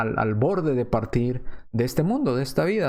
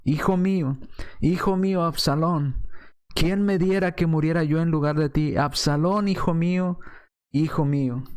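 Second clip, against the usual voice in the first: grieving father's lament; 4 semitones higher than usual. Retold or imitated. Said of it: "yéndose David caminando decía".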